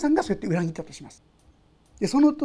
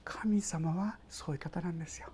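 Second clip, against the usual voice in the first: hushed whisper; 5 semitones lower, 12 dB quieter than usual. Real, not acted. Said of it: "hushed aside to congregation".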